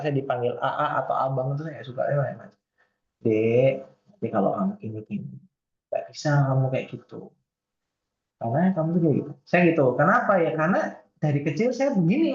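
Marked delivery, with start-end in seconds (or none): 3.2-9.3 soft Javanese speech. Shown as a demonstration. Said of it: "Saya tuh kalau ngomong ya begini gitu".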